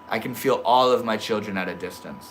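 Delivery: usual speaking voice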